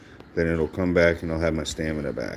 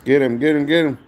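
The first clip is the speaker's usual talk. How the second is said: shouting high and loud; excited shouting; 9 semitones higher, 6 dB louder, faster than usual. Real, not acted. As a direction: yell at the screen to urge them on. Urging on attack in game.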